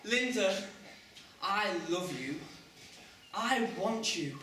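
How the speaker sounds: melodramatic love declaration, drawn out at the end; ardent lover. Shown as a demonstration. Boy coaching friend to woo Linda, overblown ardour. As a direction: declare passion like a romantic hero. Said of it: "And you say".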